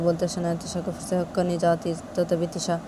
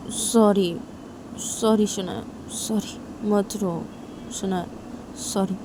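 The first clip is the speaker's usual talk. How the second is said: tender apology; 2 semitones higher, slower than usual. Acted. Tisha hugs crying Shanaya and says sorry, tenderly. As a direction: comfort someone who is crying.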